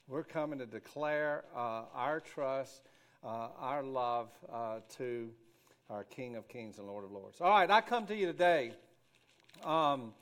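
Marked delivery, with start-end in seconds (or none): 0.1-7.4 reverent declaration. Real, not acted. Solemn declaration of worship.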